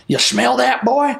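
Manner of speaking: high-pitched country prophet; Bob Jones. Retold or imitated. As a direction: imitate a folksy preacher quizzing a youngster. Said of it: "He's, like, a country prophet".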